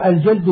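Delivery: الجلد with short a after jim, unvowelled lam; vowelled jald. Shown as a demonstration. Teacher reading a glossary gives الجلد as "al-jald". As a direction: say الجلد as "al-jald", lam closed straight onto dal. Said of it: "بفتح الجيم مع سكون اللام".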